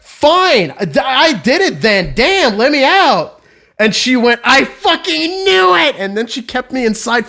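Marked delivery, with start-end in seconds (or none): 0.0-3.3 higher, exasperated giving in; fed up. Retold or imitated. Kid gives in to the teacher to get outside, fed up. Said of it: "I just got so fed up". 4.4-5.9 high, drawn mock outburst; triumphant accuser. Teacher pounces on a kid's confession, mock triumphant.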